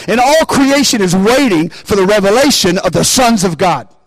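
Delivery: building to a shouted God; preaching climax. Real, not acted. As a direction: rise and shout the last word.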